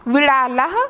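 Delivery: विड़ालः with a clear h at the end; Sanskrit pronunciation. Shown as a demonstration. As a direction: read विड़ालः and sound its final h. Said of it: "मेरे साथ आप भी उच्चारण करिए".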